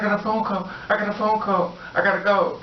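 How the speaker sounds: scared. Retold or imitated. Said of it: "She's scared".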